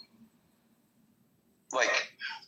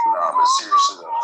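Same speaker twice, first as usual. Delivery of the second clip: loud shout; 9 dB louder than usual. Real, not acted. Sudden loud outburst.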